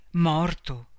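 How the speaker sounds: first shocked word, held back; stunned disbelief. A narrator's reading. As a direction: caught off guard, not yet believing. Phone news of a death. (stupore incredulo, trattenuto)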